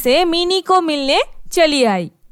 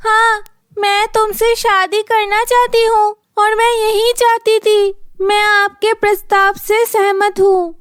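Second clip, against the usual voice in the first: put-on higher, gladly accepting young woman; happy bride; 5 semitones higher than usual. Minnie happily accepting the man's proposal, higher and glad. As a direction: say yes with joy.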